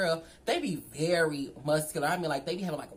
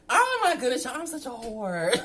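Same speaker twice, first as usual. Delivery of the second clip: high squeal breaking into laughter; shriek, then laugh at yourself; 6 semitones higher, 5 dB louder than usual. Real, not acted. Laughing self-mocking confession.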